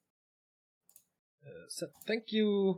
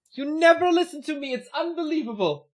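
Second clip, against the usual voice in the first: mock exasperated; 10 semitones higher, 6 dB louder than usual. Teasing co-caster for not listening.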